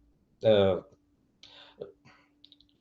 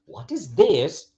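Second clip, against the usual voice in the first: THIS lifted and drawn out; emphasis on THIS; 4 semitones higher, slower than usual. Shown as a demonstration. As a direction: slowly stress THIS. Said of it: "changing intonation and changing a bit, uh, the emphasis".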